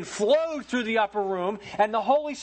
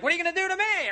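mock challenge; 10 semitones higher, much faster than usual. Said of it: "You're like".

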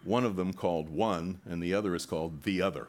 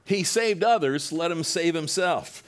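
much higher, louder, slow taunt; mocking sneer; 10 semitones higher, 8 dB louder than usual. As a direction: drag out the mockery for the crowd. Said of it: "even the rulers with them sneered".

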